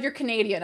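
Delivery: you're Canadian, said plainly after a slip; corrected. Real, not acted. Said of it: "I'm unfo-, oh my God".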